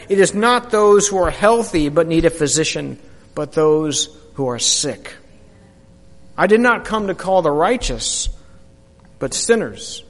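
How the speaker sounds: gentle authority, not a big character voice; understated calm Jesus; lightly voiced Jesus.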